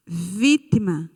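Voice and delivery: "vítima" slowly, with a long "ví"; stress on first syllable. Shown as a demonstration. Teacher pointing out the tonic syllable, slow stressed "ví" in "vítima". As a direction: stretch the first syllable of "vítima", falling after. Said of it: "A sílaba tônica é vi".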